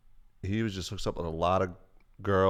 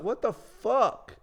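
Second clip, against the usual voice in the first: very high, drawn-out incredulous squeal; mock shock; 14 semitones higher, much slower than usual. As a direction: replay stunned protest way up high. Retells reaction to being punched.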